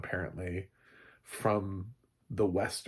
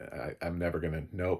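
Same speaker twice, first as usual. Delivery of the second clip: normal talking voice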